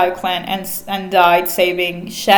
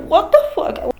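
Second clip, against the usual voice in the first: higher, stunned what-the-fuck; shocked outburst; 9 semitones higher than usual. Retold or imitated. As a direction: blurt it out in shock, pitched up. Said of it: "everyone is like".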